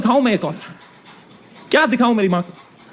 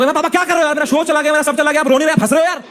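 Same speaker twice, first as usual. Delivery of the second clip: exasperated complaint; 6 semitones higher, faster than usual. Retold or imitated. Exasperated quote to father.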